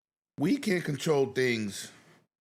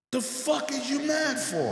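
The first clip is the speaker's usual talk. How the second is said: incredulous retort; 12 semitones higher than usual. Retold or imitated. His retort to angry people.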